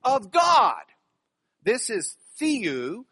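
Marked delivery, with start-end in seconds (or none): 0.0-0.8 "God" louder and drawn out; stress on GOD. Shown as a demonstration. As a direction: lean hard on "of God". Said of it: "The emphasis there is of God".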